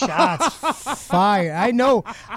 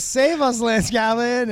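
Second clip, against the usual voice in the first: higher-pitched retold plea; imitated plea; 4 semitones higher than usual. Retelling Lucy's plea to Callahan, mimicked appeal. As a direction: mimic someone calling on a rescuer. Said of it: "Lucy goes".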